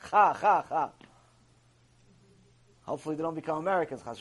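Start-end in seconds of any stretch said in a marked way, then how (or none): 0.1-0.9 "Cha, Cha, Cha" punched out, each Ch scraped in the throat; throaty Cha drill. Shown as a demonstration. Teaching his little kids extra, throaty repeated "Cha". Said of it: "I have to teach them extra".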